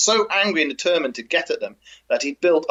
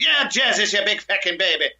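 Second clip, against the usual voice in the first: scolding Irish wife; 5 semitones higher than usual. Retold or imitated.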